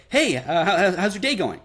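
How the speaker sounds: a bit eager and lifted, trying to please; eager greeting. Shown as a demonstration. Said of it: "someone that you ... find attractive".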